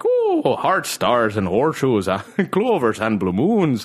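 hammed-up Irish cereal-ad voice; Lucky Charms mascot. Showing what he doesn't want, cartoon Irish accent. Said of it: "like the fucking Lucky Charms guy".

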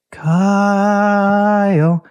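high, long held name; imitated pestering little sister; sister's nagging call. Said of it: "it was always something like this".

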